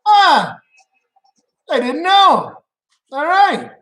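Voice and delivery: high, loud, hammed-up embarrassed bro voice; mock sheepish guy. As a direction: play the caught-out guy in a high squeaky voice. Mock reaction of the guys.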